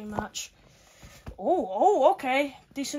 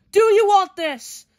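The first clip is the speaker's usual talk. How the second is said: slower challenge; 4 semitones higher, 9 dB louder, slower than usual. Pretend. Repeat of the challenge.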